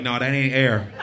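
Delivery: half-shouted realization of disaster; mock panic. Realizing the fart was not air.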